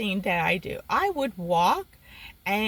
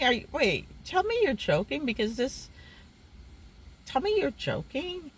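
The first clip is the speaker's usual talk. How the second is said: higher-pitched mild disbelief; retold indignation; 5 semitones higher than usual. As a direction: challenge him, mildly incredulous. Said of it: "he just got me pissed".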